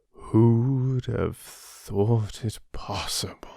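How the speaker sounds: lion whispering in wonder; amazed whisper. Acted. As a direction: breathe it out in disbelief. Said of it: "Lion replied".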